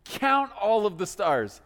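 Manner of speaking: God calling his pal to look up; God pointing Abram to the stars; buddy God. Acted. God takes Abram outside to stargaze.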